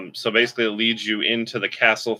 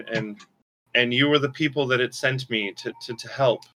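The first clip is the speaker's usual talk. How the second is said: nervous, stammering little spirit, voice raised; timid spirit voice; 3 semitones higher than usual. Acted. Game master voicing the squirrel spirit, nervous and stammering. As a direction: apologize over and over, stumbling on every word.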